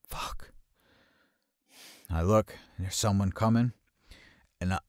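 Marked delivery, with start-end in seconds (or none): 0.1-0.5 retold muttered curse. His muttered reaction on being spotted.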